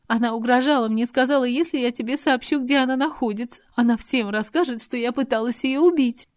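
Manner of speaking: put-on a desperate girl justifying herself; Adelaide pleading. A narrator's reading. Adelaide pleading with Robert, tearful.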